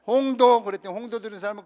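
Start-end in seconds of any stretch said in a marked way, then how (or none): 0.1-0.6 blurted answer. Retold or imitated. A teammate blurts an island name.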